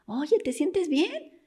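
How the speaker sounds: slow, high-pitched call through a door. Retold or imitated. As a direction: imitate a wife checking on her husband from outside. Wife calls through bathroom door.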